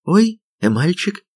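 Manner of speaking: put-on high, drawn-out girlish coo; slow, high-pitched pleased surprise with a smile; smiling girl. A narrator's reading. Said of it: "волшебное создание улыбнулось". (улыбчивый девичий голосок, высоко и протяжно)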